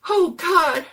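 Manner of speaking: high, loud sob; crying. Acted. Jones crying as Jenny screams, sobbing. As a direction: cry it out for real. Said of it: "Jones cried. Really cried".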